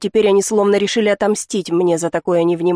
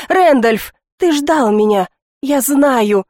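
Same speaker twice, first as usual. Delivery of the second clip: joyful call; 5 semitones higher, 4 dB louder, slower than usual. Acted.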